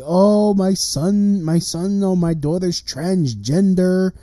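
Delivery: mock a parent showing off; lightly put-on boastful parent; mocking proud parent. Mocking parents who boast about children.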